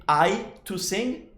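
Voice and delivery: slow, deliberately broken phrase "I to sing"; wrong form, slowed. Shown as a demonstration. Teacher showing students the wrong way, slow and careful. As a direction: spell out the wrong version slowly. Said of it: "we don't say".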